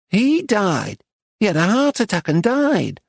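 high, matter-of-fact northern lady; oddly bright northern lady; North Country accent. A narrator's reading. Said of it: "in an English North Country accent".

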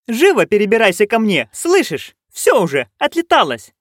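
high, insistent call; urgent command. A narrator's reading. Nanny ordering friend to climb over, urgently.

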